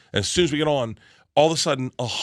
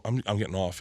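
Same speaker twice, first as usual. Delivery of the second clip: uneasy retold announcement; 4 semitones lower, 7 dB quieter than usual. Acted argument, first take.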